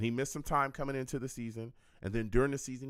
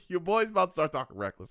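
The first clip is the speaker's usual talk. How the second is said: playful warning; 3 semitones higher, 5 dB louder than usual. Real, not acted. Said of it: "I had to remember I'm on YouTube".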